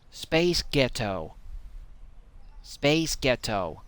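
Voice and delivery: lightly put-on American accent; slow American-accented delivery. Shown as a demonstration. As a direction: try it in American. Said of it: "Say it with an American accent".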